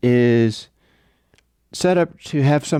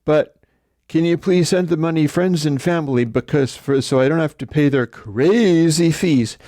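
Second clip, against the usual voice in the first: higher mock-pleading request; wheedling seller; 5 semitones higher than usual. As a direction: coax them sweetly. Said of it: "And he's like".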